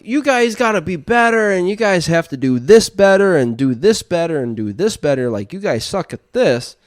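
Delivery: high, loud scolding; mock coach yelling. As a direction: bark criticism at the team. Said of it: "the guy who's, like, saying".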